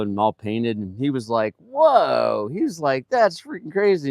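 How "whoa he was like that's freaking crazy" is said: loud, raised-pitch mock awe; retold amazement. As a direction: imitate a coworker blown away.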